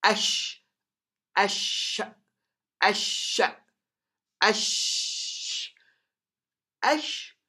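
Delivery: ASH with a long, held 'sh'; drawn-out sheen. Shown as a demonstration. Teacher showing alif lam plus sheen, long held sh. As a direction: hold the hiss of sh in ASH. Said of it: "just listen to this now".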